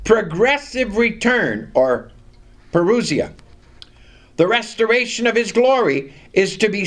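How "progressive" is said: progressive repeated with emphasis; stress on progressive. Real, not acted. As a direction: lean on progressive as the key word. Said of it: "and I stress that word".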